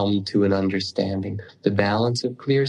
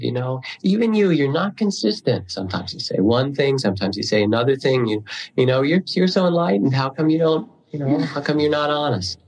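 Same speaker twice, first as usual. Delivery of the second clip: retold criticism; 3 semitones higher than usual. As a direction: reenact an indignant young student challenging his teacher. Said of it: "began also to criticize him".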